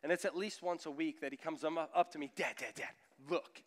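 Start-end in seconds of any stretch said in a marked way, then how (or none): 2.3-3.6 put-on excited little boy calling dad; son showing off. Four-year-old son shows dad his muscles, eager call. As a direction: kid proudly demanding dad look.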